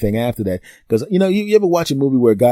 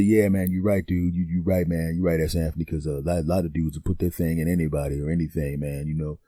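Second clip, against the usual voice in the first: imitating the friend; 5 semitones lower than usual. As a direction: slip into the buddy's laid-back confession. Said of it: "he said".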